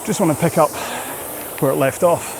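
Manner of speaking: fit a few words between each stroke, pausing for breath; talking while rowing. Real, not acted. Coach explains rhythm to rowers mid-interval, talking through exertion.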